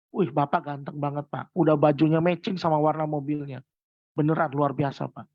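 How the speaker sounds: flattering sales talk. Shown as a demonstration. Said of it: "saya selalu bilang gini".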